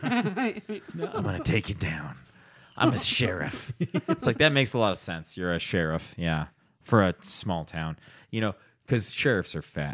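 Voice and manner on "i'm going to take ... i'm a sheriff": slow, swooping, drawn-out movie tough-guy menace. Imitating Steven Seagal challenging a fighter: Steven Seagal impression. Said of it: "Steven Seagal goes".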